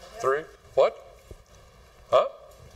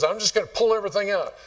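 higher, fast, fed-up farmer; frustrated farmer; 7 semitones higher, faster than usual. Retold or imitated. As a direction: rush it like an impatient farmer. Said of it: "he goes".

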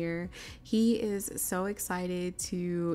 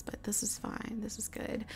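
softer, breathy whisper to herself; whispered aside; 2 semitones higher, 8 dB quieter than usual. Real, not acted. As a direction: drop to a private whisper. Quiet aside at end.

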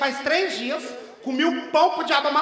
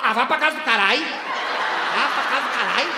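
laughing curse; 4 semitones lower than usual. Real, not acted.

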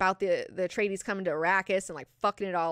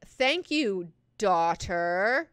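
pointed mock thanks; 3 dB louder, much slower than usual. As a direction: thank her as a put-down, stretching the last word. Mock-gracious put-down to a daughter.

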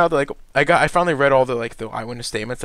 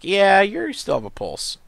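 mock parent voice; 8 semitones higher, 4 dB louder, slower than usual. Voicing his parents.

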